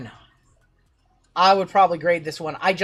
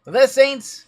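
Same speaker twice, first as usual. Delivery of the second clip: excited announcing; 6 semitones higher, 6 dB louder, slower than usual. Real, not acted. Announcing the race winner.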